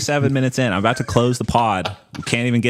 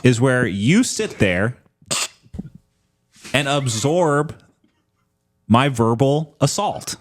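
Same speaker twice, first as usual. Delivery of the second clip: raised, slow, grand lecture; mock pompous; 4 semitones higher, slower than usual. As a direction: lord it over a friend, slowly. Mock-grand speech to cohost.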